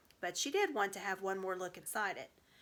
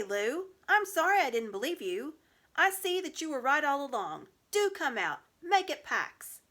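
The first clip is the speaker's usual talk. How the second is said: shouted apology; 6 semitones higher, 6 dB louder than usual. Acted. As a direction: shout the apology, half pleading. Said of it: "So he shouted again".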